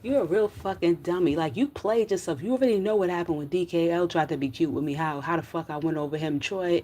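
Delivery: loud, angry scolding; tearing into Troy over the phone row; furious rant. Real, not acted. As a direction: yell at him in real anger.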